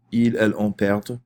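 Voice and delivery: "perd" said with an audible D at the end; final D pronounced. Shown as a demonstration. French teacher drilling subjunctive forms, final D pronounced. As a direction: close "perd" on a clearly sounded D. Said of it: "putting emphasis on the D".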